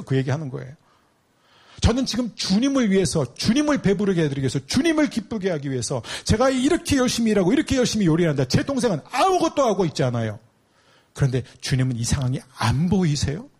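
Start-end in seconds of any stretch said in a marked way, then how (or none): 1.8-13.5 aggrieved Martha. Acted. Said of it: "마르다가 주님한테 뭐라 그러죠?".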